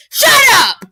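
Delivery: high, loud angry yell; furious shout. A narrator's reading. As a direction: scream it at him in fury. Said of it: "She's so mad".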